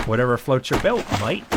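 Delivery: a bad, brief stab at an Australian accent; horrible Australian accent. Joking to viewers about a boomerang, in a horrible Australian accent. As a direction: toss off a cheesy Aussie "mate". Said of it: "I know, horrible Australian accent".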